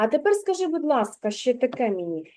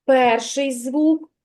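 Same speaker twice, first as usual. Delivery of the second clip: slow, drawn-out sounds; 4 dB louder, slower than usual. Shown as a demonstration. Teacher sounding out slowly for a child. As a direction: stretch each sound slowly. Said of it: "промовляй повільно слово".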